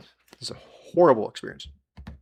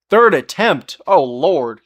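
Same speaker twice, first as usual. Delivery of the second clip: shocked question; 3 semitones higher, 9 dB louder, slower than usual. Real, not acted. Reacting to chat's surgery story.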